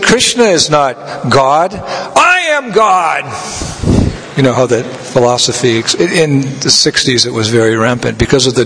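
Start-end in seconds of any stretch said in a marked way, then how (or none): 0.0-3.2 slow drawn-out boast, last words pitched far higher; mock a hippie proclaiming himself God. Hippie boasting to Prabhupada, slow and rising.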